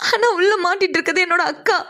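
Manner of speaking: mildly tearful insistence; tearful pleading. Acted. Sister telling Sneha her own sister is trapped inside, tearful. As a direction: plead with a touch of crying.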